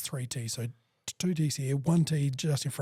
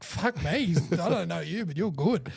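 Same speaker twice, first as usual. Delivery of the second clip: impressed surprise; 3 semitones higher than usual. Retold or imitated. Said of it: "I'm like".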